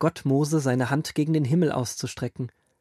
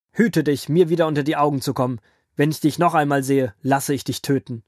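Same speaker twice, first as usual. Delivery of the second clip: drohend; 4 dB louder than usual. Acted. Pharao droht Mose zornig.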